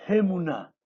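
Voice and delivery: Hemuná stressed on both HE and NÁ; accented E and A. Shown as a demonstration. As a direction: teach Hemuná with an aspirated, accented first syllable. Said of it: "acento en la E y un acento en la A".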